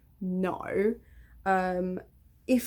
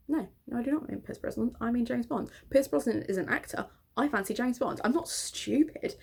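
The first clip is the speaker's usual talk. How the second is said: put-on higher, prim child insisting she is right; indignant little girl; 4 semitones higher than usual. Precocious six-year-old correcting the teasing girls, indignant. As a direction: set the big girls straight.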